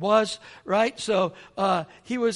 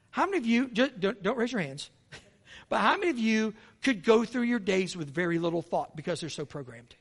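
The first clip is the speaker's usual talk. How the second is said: ordinary talk, nothing marked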